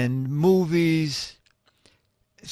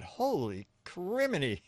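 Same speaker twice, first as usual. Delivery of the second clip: laughing amazement; 4 semitones higher, 7 dB quieter than usual. Retold or imitated. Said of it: "two times I thought".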